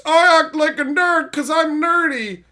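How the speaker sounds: hammed-up nerd character; mock sitcom nerd. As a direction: parody a sitcom nerd's punchline.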